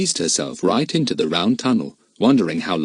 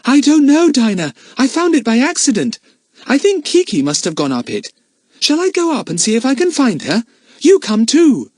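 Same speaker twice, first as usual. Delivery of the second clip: loud, high shouted answer; yelling back; 5 dB louder than usual. A narrator's reading. Lucy Ann yelling back to Dinah from the tunnel. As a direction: call back from inside the tunnel. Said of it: "Lucy Ann yelled back".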